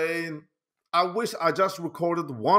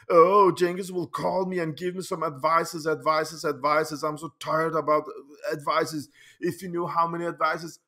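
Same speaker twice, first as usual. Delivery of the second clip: mock Cengiz. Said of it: "Talking like this".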